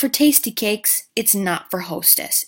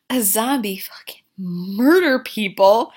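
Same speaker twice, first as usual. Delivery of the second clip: mock whisper; 2 semitones higher, 5 dB louder than usual. Fiverr voiced, whispered aside.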